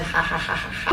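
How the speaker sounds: soft imitated cackle, low; mild mock cackle. Boyfriend coming up the stairs, a soft mock cackle. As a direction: retell his cackle lightly. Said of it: "just cackling".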